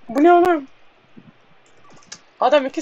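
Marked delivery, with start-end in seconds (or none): 0.1-0.7 incredulous shout. Real, not acted. Disbelief at a teammate's pass.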